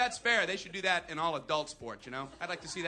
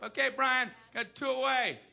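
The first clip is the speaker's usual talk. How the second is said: raised voice across the infield; calling out; 5 semitones higher, 3 dB louder than usual. Acted. Second baseman signals Brian the outs, calling out. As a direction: call the play to a teammate.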